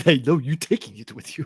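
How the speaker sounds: imitating an African accent; mock the African accent. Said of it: "It's just the way you said".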